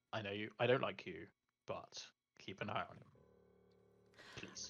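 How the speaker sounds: very quiet, hushed, pleading whisper. Voicing a character who whispers to Elos to watch someone: whispering in character. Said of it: "he'll kind of whisper to Elos and just say".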